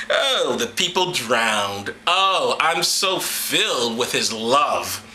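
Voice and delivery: slow mock-pious sarcasm; sarcastic. Comic mocking God's love, slow and sarcastic. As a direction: drag it out with fake piety.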